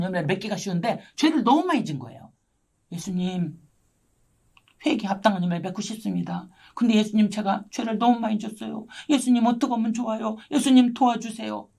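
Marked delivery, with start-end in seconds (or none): 2.9-11.7 retold tearful prayer. Believer begging Jesus for help over her sins, mildly tearful retold plea. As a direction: plead to Jesus with a touch of weeping, acted. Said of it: "엉엉 울었어요".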